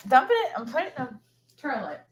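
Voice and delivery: "Dump it." sung high with a rising end; playful lilting "Dump it."; sing-song. Real, not acted. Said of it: "repeated with rising sing-song".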